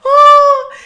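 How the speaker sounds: high, loud laughing cry. Real, not acted. Woman recalling the anaesthetic wearing off, laughing high and loud. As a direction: laugh and wail at once. Laughing about pain returning.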